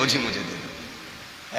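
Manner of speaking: a stretched, slow, far-off plea of "ओ जी"; drawn-out mock begging. Preacher mimics people at the food handout, slow and drawn-out. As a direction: drag "ओ जी, मुझे दे दो" out slowly like a pleading kid at the food handout. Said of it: "इससे ज़्यादा शोर तो हमारे यहाँ के चनों में".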